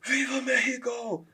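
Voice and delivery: high, drawn-out imitated chant; screaming. Imitating Merab hyping the crowd with a high drawn-out yell. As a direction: belt it like a fired-up fighter. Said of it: "when he's out there screaming".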